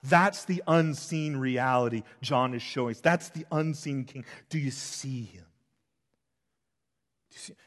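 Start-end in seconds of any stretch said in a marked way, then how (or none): 4.5-7.5 hushed, breathy whisper to the room. Real, not acted. Preacher whispering to his congregation, hushed. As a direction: lean in and whisper the question.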